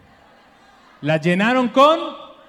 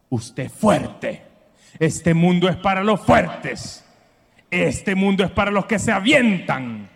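tough-love mom voice; 4 semitones lower, slower than usual. Retold or imitated. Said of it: "esa frase de las mamás".

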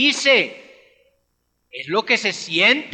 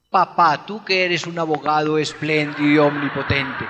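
mock formal child; 6 semitones lower than usual. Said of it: "así lleno de discursos".

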